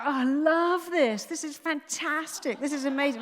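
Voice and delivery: loud, high mock-thrilled shout; shouting delight. Mother on a scary ride to confuse her brain, shouting delight. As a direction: shout it out with put-on enthusiasm. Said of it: "I started shouting out".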